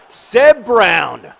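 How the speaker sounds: loud, high cheer of the name; excited cheer. Real, not acted. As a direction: shout the keeper's name in delight. Cheering the keeper's save.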